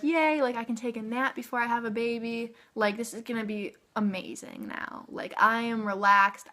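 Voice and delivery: thrilled the pain is finally gone; giddy relief. Retold or imitated. The epidural finally works, giddy and relieved.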